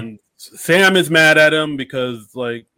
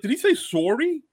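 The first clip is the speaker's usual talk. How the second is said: surprised; 13 semitones higher, 5 dB quieter than usual. Retold or imitated. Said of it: "I was like".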